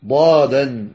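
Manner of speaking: "ضادا" with a heavy stopped d, not ظ; wrong letter demo. Shown as a demonstration. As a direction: show the swapped sound, emphatic d in "ضادا". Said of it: "يعكسون فينطقون الضاء".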